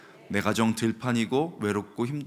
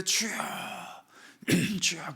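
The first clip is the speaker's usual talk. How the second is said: desperate prayer cry; 10 semitones higher than usual. Retold or imitated. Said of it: "사막에서는 절박하지요".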